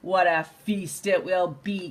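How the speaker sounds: lightly voiced sly coyote, low muttered; gloating coyote. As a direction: savour the thought to himself. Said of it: "Coyote said to himself".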